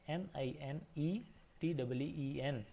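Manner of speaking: each letter spaced and slow; slow spelling. Shown as a demonstration. Teacher spelling nineteen for children, slow. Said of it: "नाइनटीन की spelling है".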